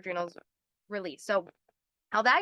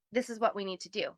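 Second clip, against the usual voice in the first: calm; 3 semitones lower, 5 dB quieter than usual. Retold or imitated. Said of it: "they're calm".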